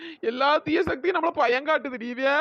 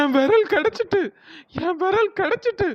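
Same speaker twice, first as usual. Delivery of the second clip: elated, higher-pitched chant; exult, repeating it as if crazed with joy; overjoyed; 5 semitones higher than usual. Acted. Ghost woman gets her lost finger back, overjoyed. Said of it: "கிறுக்கு முத்தி போச்சான்னு".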